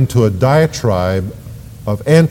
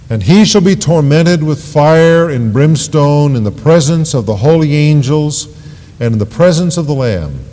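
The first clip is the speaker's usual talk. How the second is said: measured, mildly raised pulpit reading; loud-voiced scripture proclamation; 2 semitones higher than usual. Preacher reads the third angel's warning, firm proclamation. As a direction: read it out as a solemn warning. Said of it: "with a loud voice".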